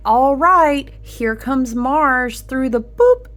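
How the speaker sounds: playful mock hype; excited. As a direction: cheer Mars through the drain, hammed-up. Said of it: "And you're like".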